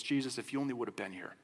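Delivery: grieving sister softly reproaching Jesus, pained. Retold or imitated. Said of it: "you can hear the exasperation, you can hear the pain".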